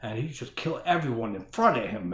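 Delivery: lightly put-on voice mocking a bad speech; odd put-on voice. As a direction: drag it out in a weird mock voice. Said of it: "I don't know why I'm talking like this".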